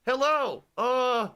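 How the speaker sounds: high, hammed-up southern gentleman; Colonel Sanders. Halloween host welcoming viewers as Colonel Sanders, southern character voice. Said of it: "I'm Colonel Sanders".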